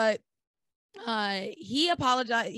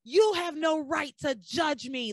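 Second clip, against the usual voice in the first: slow, higher mock indignation; retold loud argument; 4 semitones higher, slower than usual. Ivy hitting back at Sam in the hospital, mock outrage. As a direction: push each word in an imitated quarrel. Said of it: "they start having it out in this hospital loudly".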